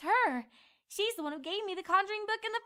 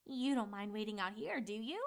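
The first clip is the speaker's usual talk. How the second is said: sly fib; 5 semitones lower than usual. Acted. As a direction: pretend sweetly to be honest. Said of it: "she lied".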